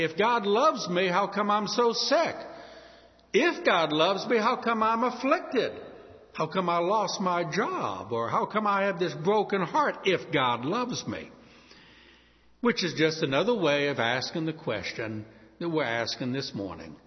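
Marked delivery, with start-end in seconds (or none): 0.0-11.3 raised, pleading complaint to God; a hurting believer's lament; anguished doubt. Retold or imitated. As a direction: cry out why me, hurt and bitter. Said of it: "and we'll say".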